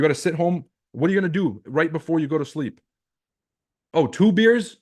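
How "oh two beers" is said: high, loud mock shock; mock surprise. Coach mock-scolding a tired viewer over beers, high and loud. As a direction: catch him out with fake disbelief.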